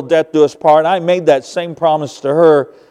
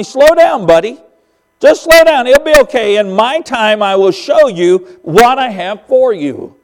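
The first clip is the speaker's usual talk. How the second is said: gentle reassurance; 3 semitones higher than usual. Retold or imitated. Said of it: "God was just telling me".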